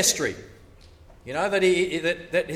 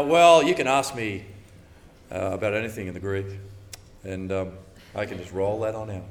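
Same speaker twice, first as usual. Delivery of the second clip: lower, casual boasting voice; mock know-it-all; 8 semitones lower, 3 dB louder than usual. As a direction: brag lazily about your Greek.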